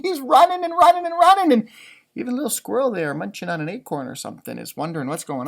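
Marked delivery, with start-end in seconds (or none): 0.0-1.5 fast, bright and higher storytelling; excited narration. A narrator's reading. Reading to kids, Rabbit racing around, fast and excited. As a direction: pick up the pace as he runs.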